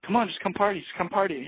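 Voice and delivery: high, wheedling mock voice of the party guy; pushy party guy. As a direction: whine it up high like a drunk begging you to stay. Drunk local begging them to party.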